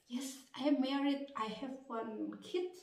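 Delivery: innocently. Retold or imitated. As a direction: answer plainly without guile. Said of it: "Ya gue dengan polosnya". (dengan polos dan pelan)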